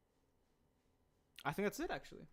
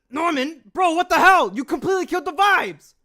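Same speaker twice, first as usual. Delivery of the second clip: angry shout. Acted. Recording an angry character line.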